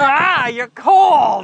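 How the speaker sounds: loud, slow gasp at the cold; startled by cold. Real, not acted. Wet child against him.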